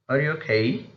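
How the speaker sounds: "Are you okay" with a clear upswing at "okay"; rising tone. Shown as a demonstration. Teacher repeats a yes or no question, rising tone. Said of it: "in the case of yes or no questions".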